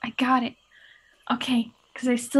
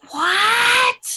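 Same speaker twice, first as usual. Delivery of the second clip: stage whisper; 8 semitones higher than usual. Acted. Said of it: "Is that a whisper scream".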